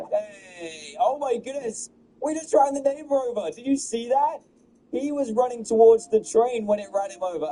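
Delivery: high-pitched, loud shouts of shock; yelling in amazed disbelief; excited yell. Real, not acted. Gamer shouting as the neighbor gets hit, excited yell. Neighbor run over by train.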